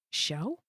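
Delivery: questioning "Show?" with sh in place of s, rising; lisp echoed back. Retold or imitated. Streamer catches own slip, lisped questioning "Show?". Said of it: "I'm speaking with a lisp".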